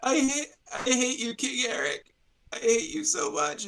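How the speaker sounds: high, strained dying curse; dying man's curse. Acted. GM voicing the dying man cursing King Eric, high strained. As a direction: spit hatred with your last breath. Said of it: "And then he's like".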